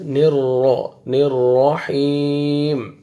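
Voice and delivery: thick, rolled ra in نر, with رحیم drawn out long; heavy raa. Shown as a demonstration. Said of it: "را کو موٹا کر کے پڑھنا ہے". (را موٹا، رحیم کھینچ کر)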